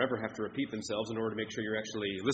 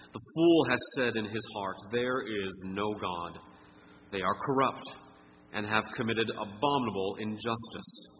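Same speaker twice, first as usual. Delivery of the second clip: scripture reading. Acted. Pastor reading Psalm fifty-three to the church, solemn. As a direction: read the psalm with weight.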